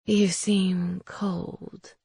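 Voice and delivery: very slow, soft crone; old witch voice. Acted. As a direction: drawl it like an old hag. Witch Raisa speaks.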